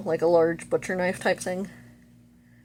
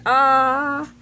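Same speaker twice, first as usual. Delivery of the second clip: drawn-out "ah", high and louder; mock freaked-out "ah"; 6 semitones higher, 6 dB louder than usual. She is already freaked out about everything, mock alarm. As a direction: hold a mild mock wail. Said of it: "she's already freaked out".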